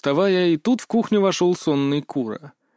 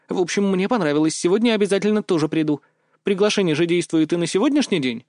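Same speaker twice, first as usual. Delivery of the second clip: put-on higher girlish voice, teasing and bossy; lightly voiced girl, playful; 6 semitones higher than usual. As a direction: tease him like a cheeky friend. Mia's voice held. (слегка девичьим голосом, шутливо)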